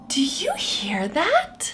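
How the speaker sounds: soft breathy whisper. Acted. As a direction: lean in and whisper to the child. Hushed question to child.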